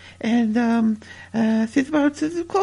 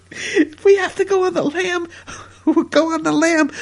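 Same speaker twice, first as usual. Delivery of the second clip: laughing; 3 semitones higher than usual. Real, not acted. Laughing in the mock romantic reply.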